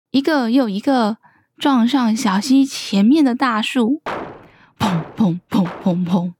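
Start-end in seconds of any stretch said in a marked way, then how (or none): 4.8-6.3 low string of bumps; storyteller's thudding sound effect; imitated thuds. A narrator's reading. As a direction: voice repeated crashes, low and punchy. Crashes into the tree one by one.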